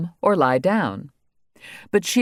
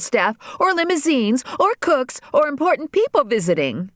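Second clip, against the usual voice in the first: much higher, bratty shrill tirade; spoiled girl voice; 9 semitones higher than usual. A narrator's reading. Regina rages at the pony to her father, much higher and bratty. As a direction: rant like a spoiled daughter, pitched way up.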